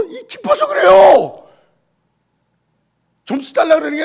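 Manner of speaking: high, loud, joyful shouting; overjoyed exclaiming. Acted. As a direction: burst with joy for the father. Daughter's joyful testimony voiced. (기뻐서 높고 크게 외치는 딸)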